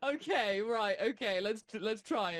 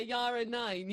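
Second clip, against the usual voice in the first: mock German; 3 dB quieter than usual. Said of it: "so I could just say".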